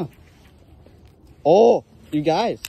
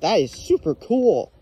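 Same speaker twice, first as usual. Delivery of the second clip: higher and slow, savouring the find; thrilled; 5 semitones higher, slower than usual. Real, not acted. Showing viewers the knife, awed and slowed right down. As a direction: gush over the pocket knife.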